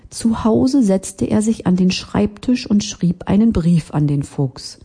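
plain reading voice

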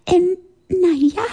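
hoher Spatz, zögerlich stockend; stotternd. Acted. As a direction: verlegen herumdrucksen mit Piepsstimme. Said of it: "stotterte der Spatz". (Spatz stottert verlegen)

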